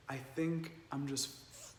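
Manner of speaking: soft, halting, stalling before the word "f-"; a hushed, faltering retold confession; hesitant confession. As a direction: trail off quietly, unable to finish.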